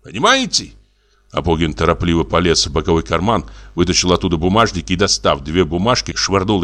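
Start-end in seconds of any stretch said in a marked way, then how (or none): 0.0-0.7 very high-pitched threat; indignant squeal. A narrator's reading. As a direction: squeal it out, deeply affronted. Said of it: "взвизгнул Абогин". (угрожающе, срываясь на визг)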